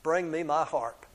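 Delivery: mild giant shout, loud only at the start; sharp summons easing into a plain order. Acted. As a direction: call out the first word loud, then settle. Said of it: "Then he shouted".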